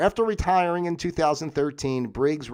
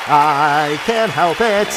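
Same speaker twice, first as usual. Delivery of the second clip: silly drawn-out voice; 3 semitones higher, 10 dB louder, much slower than usual. Acted.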